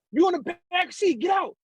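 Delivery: high-pitched imitation of shouted orders; mimicked urgent command; retold police command. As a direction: call it out like police at a car. Police order him from car.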